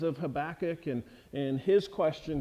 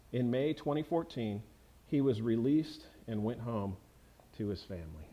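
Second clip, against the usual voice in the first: lower, measured reading of a true story; read-aloud account winding down to a quiet finish; story narration; 5 semitones lower, 3 dB quieter than usual. A narrator's reading. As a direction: settle into the story's ending, sinking lower and softer at the close. Reads the end of the story.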